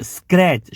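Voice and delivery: સ્ક્રેચ with a clear skr start; teacher says સ્ક્રેચ; model word. Shown as a demonstration. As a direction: say સ્ક્રેચ crisply. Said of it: "શું વાંચશો?".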